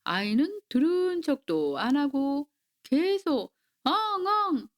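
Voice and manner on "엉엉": high imitated sobbing, storybook style; child's wail. A narrator's reading. Child ignoring mother and crying on, imitated wail. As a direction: give a mock childish wail. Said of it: "하고 울었어요".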